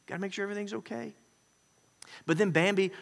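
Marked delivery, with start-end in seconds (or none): 0.1-1.1 anxious mother. Retold or imitated. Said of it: "Mom says".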